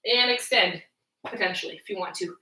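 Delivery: talking through a long exhale; strained, breathy effort while exercising; steadying breath. Real, not acted. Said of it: "that was a really long exhale".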